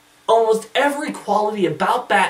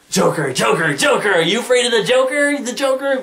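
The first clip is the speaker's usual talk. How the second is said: a kid brother's mocking, higher taunt; mock teasing chant, a bit louder; teasing sing-song taunt; 6 semitones higher, 3 dB louder than usual. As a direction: needle him in a sing-song. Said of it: "He's like".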